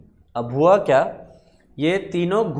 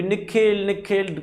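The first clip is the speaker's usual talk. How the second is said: a higher call of the name from door to door; 6 semitones higher, slower than usual. Acted. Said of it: "भटक भटक के".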